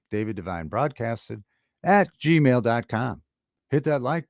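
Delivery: radio voice. Shown as a demonstration. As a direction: read it out like a radio DJ. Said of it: "while I got my radio voice going".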